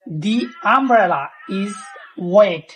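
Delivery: "the" stretched to "thee", the sentence said very slowly. Shown as a demonstration. Teacher reading an example sentence slowly for students. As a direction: read it out slowly with a clear "thee". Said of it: "এই ছাতাকে নির্দিষ্ট করে বোঝানো হয়েছে".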